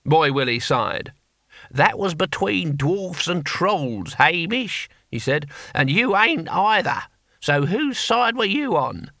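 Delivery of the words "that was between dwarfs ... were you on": put-on weary old barbarian. Weary correction to deaf Hamish.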